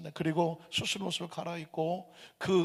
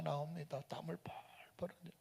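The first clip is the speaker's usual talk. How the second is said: whispered narration; 2 semitones lower, 16 dB quieter than usual. A narrator's reading. Pastor telling the congregation, in a hushed whisper. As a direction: drop to a whisper.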